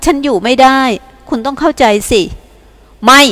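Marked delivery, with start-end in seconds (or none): 3.0-3.2 ตะโกนห้วนๆ สั้นๆ; ตะโกนคำเดียวใส่เธอ; ตะโกน. Acted. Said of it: "เขาตะโกนใส่ฉัน". (เอียนตะโกนใส่แวนด้า ตะโกนสั้นๆ)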